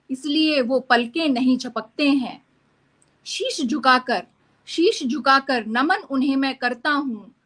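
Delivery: lilting, declaimed verse with rising and falling phrases; patriotic poem recitation. Acted. Poet speaking as India to its people, proud lilting recitation. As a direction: recite it proudly, line by measured line.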